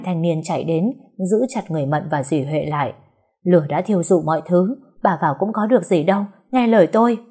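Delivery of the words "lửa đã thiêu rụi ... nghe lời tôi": firm plea, building at the end; urgent dissuading. Acted. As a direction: talk sense into her forcefully. Bystander urges her to give up.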